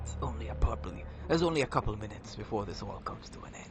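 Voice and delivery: menacing villain, half whispered; a villain gloating over doomed heroes. Acted. Villain monologue to the party.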